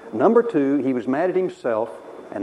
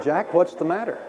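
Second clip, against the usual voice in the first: higher-pitched imitation of a concerned mom; concerned mother; 6 semitones higher than usual. Mother asks her sulking son, lightly imitated concern. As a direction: play mom asking after her boy.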